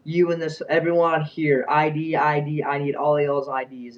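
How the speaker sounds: mild mock yell, emphatic; imitated yelling. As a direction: retell a manager's barrage of demands. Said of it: "absolutely was yelling at me".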